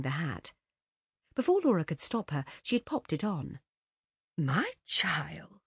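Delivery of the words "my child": hushed tender whisper. Acted. Mother tenderly addressing daughter.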